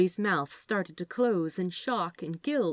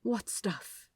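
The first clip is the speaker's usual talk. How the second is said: demanding; 4 semitones higher, 4 dB quieter than usual. Acted. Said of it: "Aziraphale demanded".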